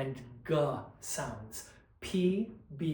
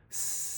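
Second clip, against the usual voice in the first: sustained S hiss; 3 dB quieter than usual. Shown as a demonstration. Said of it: "an S sound going".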